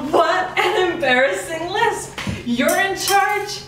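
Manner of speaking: high, slow sneering mock. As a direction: taunt him with disdain. Boss mocks the lisp.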